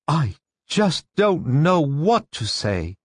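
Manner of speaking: high, slow, flustered woman's voice; flustered and lost for words; gasped. A narrator's reading. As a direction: gasp it out, barely finding your voice. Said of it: "Missus Parker gasped, finding her voice".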